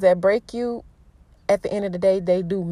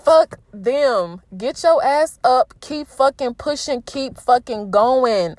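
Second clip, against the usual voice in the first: fired-up pep talk; 4 semitones higher, slower than usual. Real, not acted. Emotional pep talk to listeners.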